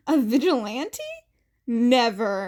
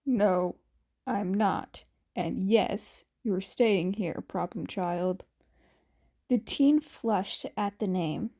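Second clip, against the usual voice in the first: a hint of a lower, commanding Aizawa; lightly voiced stern Aizawa; 3 semitones lower than usual. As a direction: give calm orders in a lower voice. Aizawa answers Izuku.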